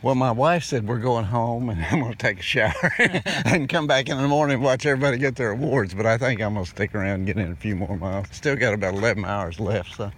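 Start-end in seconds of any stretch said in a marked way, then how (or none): 1.7-5.9 chuckling through the words; laughing. Real, not acted. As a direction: laugh while you talk. Laughing about going home.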